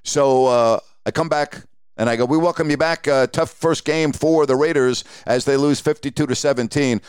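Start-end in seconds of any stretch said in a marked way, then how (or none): 2.3-7.0 on-air announcer. Retold or imitated. Broadcaster returning from commercial break.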